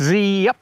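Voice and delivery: drawn-out bird call; zipper birdsong. Shown as a demonstration. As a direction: imitate the parula's buzzy zip. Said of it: "you just can't misidentify the song".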